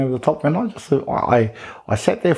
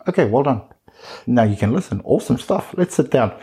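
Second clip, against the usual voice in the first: teacher voice; 2 semitones higher than usual. Retold or imitated. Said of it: "that sort of teacher voice".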